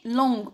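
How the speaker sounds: "لونج" as longue, ending on hard G; hard G, correct form. Shown as a demonstration. Teacher confirming the feminine spelling, "لونج" with hard G. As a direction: finish "لونج" with G as in go. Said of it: "زدت ال U".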